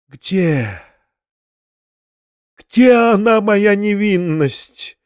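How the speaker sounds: high, slow, drawn-out lament; feverish raving. A narrator's reading. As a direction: wail it out as if delirious. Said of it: "как будто был в жару и в бреду".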